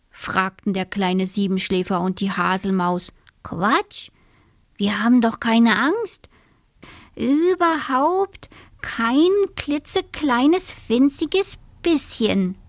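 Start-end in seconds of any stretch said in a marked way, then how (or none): 3.4-12.6 high, emphatic little-animal bravado; protesting denial. A narrator's reading. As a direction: insist on it, swooping up on key words. Scared animals deny being afraid.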